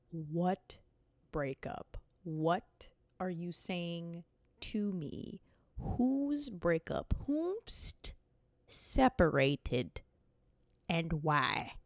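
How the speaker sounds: slow, stunned questioning; shocked drawn-out disbelief. Real, not acted. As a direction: drag each word out in disbelief. Shocked confusion at plot twist.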